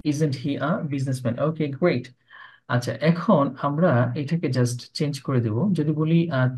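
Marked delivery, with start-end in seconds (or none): 0.0-1.3 slow, softer careful question; teacher drilling slowly; slow model question. Shown as a demonstration. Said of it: "teacher repeats after students".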